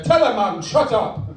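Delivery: lightly performed rap lyric; mock lyric recital. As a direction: quote the lyric with a little punch. Quoting a rapper's lyrics against Shakespeare.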